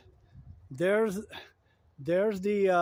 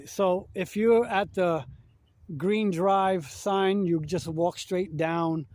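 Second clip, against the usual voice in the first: shouting over wind; 4 dB louder, slower than usual. Real, not acted. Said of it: "I hope you can hear me over the wind".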